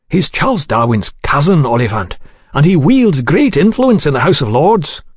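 lightly voiced worried official, lively swoops in pitch; agitated official. Frightened diner warning Oliphant about a powerful lord, mildly agitated. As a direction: protest with a touch of agitation.

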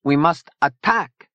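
high, slow, emphatic declaration; urgent rallying cry. A narrator's reading. Zona urging her allies to attack, urgent. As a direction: press the call to action, drawn out.

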